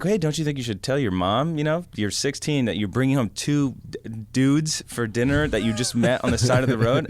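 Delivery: a touch of alarmed hitchhiker; retold worried question. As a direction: raise it up like a nervous guest. Asking the girl, worried.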